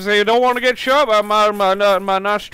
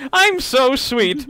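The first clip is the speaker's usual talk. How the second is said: slow, higher, sugary; mock sweet voice; 6 semitones higher, 3 dB louder, much slower than usual. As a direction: drag it out sickly sweet. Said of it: "It's just a messed up, like".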